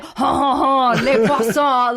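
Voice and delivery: lightly mocking French chef singsong, laughing; a hint of the cartoon French chef; Little Mermaid chef. Teasing a friend with a lightly voiced cartoon chef. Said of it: "like the guy from, The Little Mermaid, like the chef".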